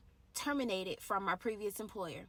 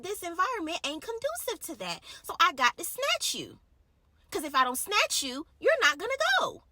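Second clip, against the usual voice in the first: voice of God; 6 semitones higher, 7 dB louder than usual. Retold or imitated. Voicing God, rising to a peak.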